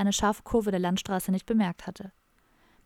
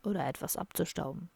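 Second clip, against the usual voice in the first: much softer, lower, cunning aside; sly aside; 3 semitones lower, 8 dB quieter than usual. Acted. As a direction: murmur it slyly to a friend. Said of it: "Leise und listig zu Don". (leise und listig zur Seite)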